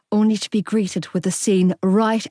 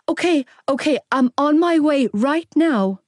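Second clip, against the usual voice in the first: higher, anxious reassurance; coaxing, panic setting in; 6 semitones higher than usual. A narrator's reading. Young woman promising a crying child help, anxiously coaxing. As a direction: coax a child while your own worry rises. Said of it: "I tried to coax, panic setting in".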